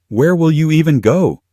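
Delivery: high, loud mock wonder. A narrator's reading. Mother taunting the woman who is leaving, mocking. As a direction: taunt with a lifted, scornful question.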